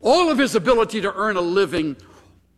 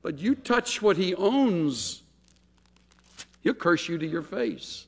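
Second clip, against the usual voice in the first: sarcastic; 2 semitones higher than usual. Retold or imitated. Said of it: "operating procedure of sarcasm".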